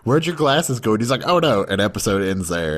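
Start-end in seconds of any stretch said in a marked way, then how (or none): 0.0-0.9 higher, innocent question; girl's question. Retold or imitated. Girl asking the boy about his glasses, higher and innocent. 1.2-1.6 higher dismayed groan; sudden realization. Retold or imitated. Boy realizing his glasses are gone, higher and dismayed.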